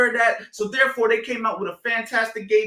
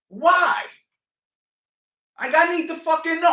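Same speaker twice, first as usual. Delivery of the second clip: exasperated shout; 7 semitones higher than usual. Real, not acted. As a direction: shout the why, demanding an answer. Coach demanding answers.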